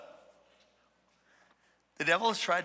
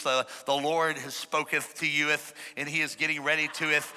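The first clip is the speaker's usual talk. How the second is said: mock Elizabethan English; 3 semitones lower than usual. Preacher teasing church folk's old English, mock solemn. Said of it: "talk in Elizabethan English".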